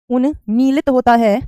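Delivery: slow, deliberate re-say of उन्मीलित होता है; slow repeat. Shown as a demonstration. Teacher repeats the correct word slowly for students. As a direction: spell it out slowly for the class. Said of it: "clear है?".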